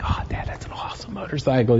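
whispered awe, imitating a kid; hushed admiration. Son admiring dad's motorcycle during a break, hushed. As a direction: breathe it in a soft whisper.

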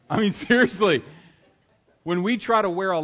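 laughing through the words. Real, not acted. Preacher cracks up at his own joke, laughing. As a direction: let the laugh spill over. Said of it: "Stop laughing".

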